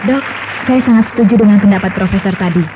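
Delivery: loud, eager sales pitch; eager agreement. Acted. Doctor loudly praising Spiradan to a colleague, eager. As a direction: push the product with enthusiasm.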